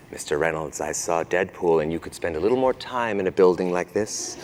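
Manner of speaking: a hint of a disapproving clergyman; stern archbishop. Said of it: "uh, recently who said".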